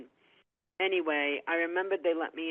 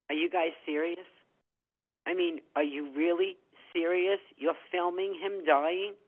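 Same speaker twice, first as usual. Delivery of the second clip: higher, indignant confrontation; indignant disbelief; 3 semitones higher, 3 dB louder than usual. Retold or imitated. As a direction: retell an outraged challenge, pressing each question. Confronts prison officer over filming dying father.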